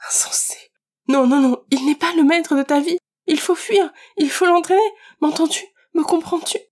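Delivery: urgent, climbing plea to make him understand; desperate pleading. Acted. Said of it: "m'écriai-je".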